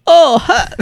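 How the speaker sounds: high, loud put-on "oh hi" voice; Tommy Wiseau impression. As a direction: do the famous Wiseau greeting. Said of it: "Just think of, um, um, Tommy Wiseau".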